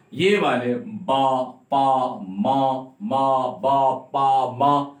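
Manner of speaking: "बा, पा, मा" said firmly with closed lips; lip sounds demo. Shown as a demonstration. Teacher drilling bilabial sounds with pressed lips. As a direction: pop "पा" and "बा" from the lips. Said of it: "ये lips से मिलकर".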